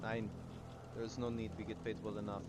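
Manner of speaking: put-on lightly accented German mercenary. Mercenary declining the tip, wobbly German accent. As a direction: attempt a slight German accent. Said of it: "my German accent keeps going Irish".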